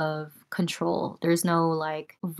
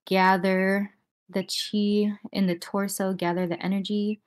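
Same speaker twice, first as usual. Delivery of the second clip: whisper. Shown as a demonstration. Guided breathing, whispered cue.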